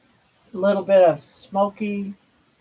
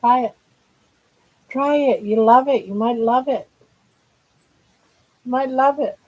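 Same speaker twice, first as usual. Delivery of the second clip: higher pitched, pleading with pet; high coaxing voice; 4 semitones higher than usual. Real, not acted. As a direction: sweet-talk the dog to try it. Urging pet to try food.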